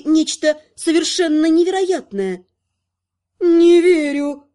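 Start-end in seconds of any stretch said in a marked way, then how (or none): 3.4-4.4 loud, drawn-out disbelief; stunned slow gasp of words; hoarse disbelief. A narrator's reading. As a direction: stretch each word in shock. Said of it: "просипела первой Амалика".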